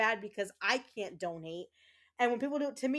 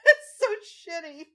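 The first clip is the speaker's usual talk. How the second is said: real tearful laugh, voice cracking high and loud; half laughing, half crying, louder and higher; laughing through tears; 10 semitones higher, 10 dB louder, slower than usual. Real, not acted. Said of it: "I need a minute 'cause I'm tearing up".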